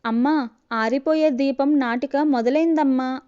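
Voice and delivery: calling out. Acted. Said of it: "అంటూ అరుస్తూ వచ్చిన భవ్య".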